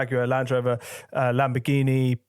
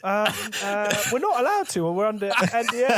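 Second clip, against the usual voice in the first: mock excuse; 8 semitones higher than usual. Mimicking clients' excuse.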